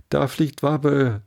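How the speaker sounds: a crowd yelling as he flies; chorus cry. Acted. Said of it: "einen allgemeinen Chor".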